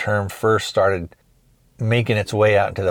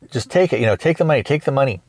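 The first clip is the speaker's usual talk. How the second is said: higher-pitched, lightly acted plea; mock pleading; 5 semitones higher, faster than usual. Clerk on the ground offering up money, imitated pleading. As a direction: imitate someone begging to be left alone.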